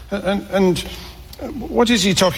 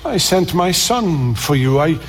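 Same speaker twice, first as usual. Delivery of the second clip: tender. Acted. God voiced speaking to wanderers.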